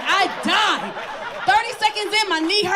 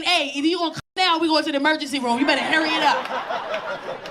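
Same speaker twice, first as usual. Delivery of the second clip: knees' urgent warning; 2 semitones lower than usual. Retold or imitated. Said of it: "My knees told my penis".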